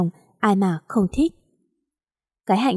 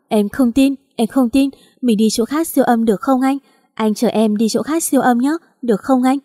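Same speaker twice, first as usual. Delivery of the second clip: mild tearful plea, a touch higher; tearful pleading; 3 semitones higher than usual. Acted. Wife begging husband for another scan, mildly tearful. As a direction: beg him through light tears. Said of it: "Tôi khóc".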